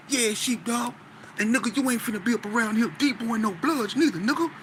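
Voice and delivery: lightly voiced menacing warning; menacing gang warning. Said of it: "And he said it just like that".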